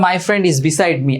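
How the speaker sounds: slow, carefully spaced English example; slow model sentence. Shown as a demonstration. Teacher reading an example to the class, slowly. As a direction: say it slowly so students follow. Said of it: "আমি বললাম".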